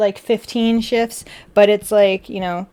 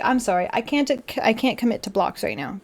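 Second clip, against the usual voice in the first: softer, polite refusal; polite apology; 4 dB quieter than usual. Retold or imitated. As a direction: repeat the polite no, a little softer. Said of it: "that's exactly how I said it".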